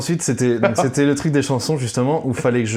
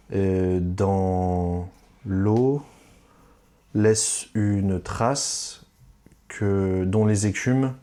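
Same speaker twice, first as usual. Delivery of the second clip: slow recitation; 3 semitones lower, much slower than usual. Shown as a demonstration. Recalling reworded lyrics slowly.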